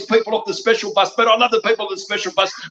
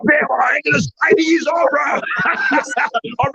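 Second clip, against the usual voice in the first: higher, half laughing, slow on the second line; laughing shout; 5 semitones higher, slower than usual. Real, not acted. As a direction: laugh while boasting.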